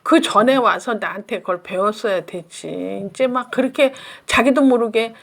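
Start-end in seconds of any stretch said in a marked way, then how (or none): 0.0-3.1 retold telling-off of a parent; mild scolding. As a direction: reproach that starts strong, then settles. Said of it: "일단 야단부터 받아요". (가볍게 야단치는 말투)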